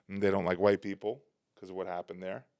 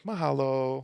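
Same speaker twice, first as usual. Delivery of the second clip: higher, sweetly dismissive mock mahalo; passive aggressive; 4 semitones higher, slower than usual. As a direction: brush them off with fake sweetness. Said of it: "they're very passive aggressive".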